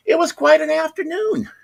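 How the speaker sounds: singsong high wrap-up; comic understatement. Real, not acted. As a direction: pitch it way up to wrap up the tale. Comic summing up of the story.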